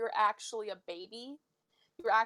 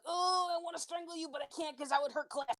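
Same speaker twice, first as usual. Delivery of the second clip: high-pitched frustrated mock whine; torn, frustrated; 7 semitones higher than usual. Player voices Jasper stuck in limbo, frustrated. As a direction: voice Jasper's helpless urge to strangle, pitched up. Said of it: "so he's in, like, this eternal state of limbo".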